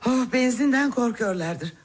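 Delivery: ordinary delivery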